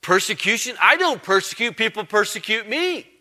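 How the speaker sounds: high, offended protest; indignant Saul. Retold or imitated. Saul taking offence at being called a persecutor, indignant. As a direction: bristle at the accusation. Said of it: "Saul would have been sensitive to such a term".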